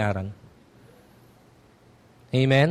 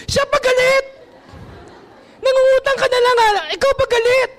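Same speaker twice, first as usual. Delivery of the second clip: preacher exasperated at ungrateful borrowers; incredulous outrage. Real, not acted. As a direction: throw up your hands in outrage.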